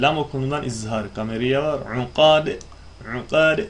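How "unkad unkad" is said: unkad ending with a bouncing d; recited unkad with qalqala. Shown as a demonstration. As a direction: end unkad with a qalqala echo. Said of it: "Gargale vardır".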